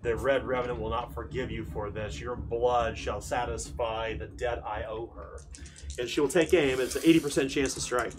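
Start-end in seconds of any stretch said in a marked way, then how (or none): 0.0-5.4 menacing knight voice. Acted. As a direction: speak as a vengeful armored knight. GM voices villain's threat.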